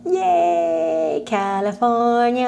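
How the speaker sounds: drawn-out cheer, sliding upward; excited. Real, not acted. Streamer cheering for going back home to California, excited. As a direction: stretch it into a long happy cheer. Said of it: "I'm so excited to come back home".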